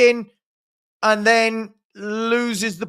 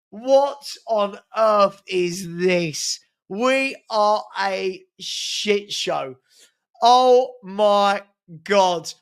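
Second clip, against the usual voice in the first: slow disbelief; much slower than usual. Real, not acted. Despair after own goal.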